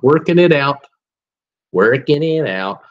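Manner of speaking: lightly voiced George Bush Senior, mock presidential; George Bush impression. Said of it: "I love doing my George Bush impersonation".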